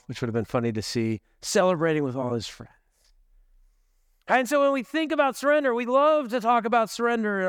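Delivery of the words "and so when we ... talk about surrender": higher, quicker, eager preacher delivery; upbeat enthusiasm. Real, not acted. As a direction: say it like everyone happily agrees. Eagerly embracing winners' surrender.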